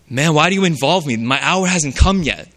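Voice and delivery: lightly harsh, pushing back at his mother; forceful aggressive tone. Shown as a demonstration. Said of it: "In a very forceful tone, aggressive tone".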